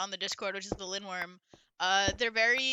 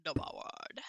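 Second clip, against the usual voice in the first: whispering; 6 semitones lower, 10 dB quieter than usual. Real, not acted. Echoing partner in a whisper.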